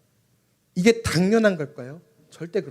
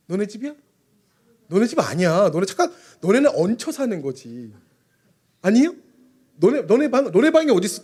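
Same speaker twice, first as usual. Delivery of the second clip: put-on louder and higher teasing challenge to the kids; mock scolding; 5 semitones higher, 3 dB louder than usual. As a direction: scold the children half in jest. Preacher teasing the kids sternly. (아이들을 장난스럽게 꾸짖듯)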